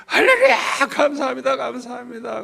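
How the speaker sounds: high, loud cry of praise easing into thanks; overjoyed. Retold or imitated. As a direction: re-enact bursting out in grateful delight. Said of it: "너무너무 좋아가지고".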